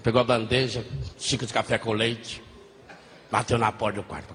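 normal talking voice

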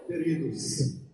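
usual speaking voice

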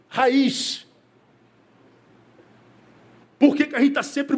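high-pitched, insistent sermon delivery; impassioned preaching. Real, not acted. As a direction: preach it with rising urgency, question after question. Preacher raises voice for the point.

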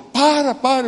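high urgent shouted stop; retold shout. Drug boss's son yelling across the favela meeting to stop. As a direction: cry out over and over to make him stop. Gang boss shouts again.

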